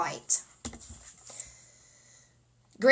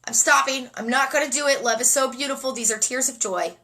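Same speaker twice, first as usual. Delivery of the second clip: close to tears; 3 semitones higher than usual. Real, not acted. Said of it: "I'm gonna cry".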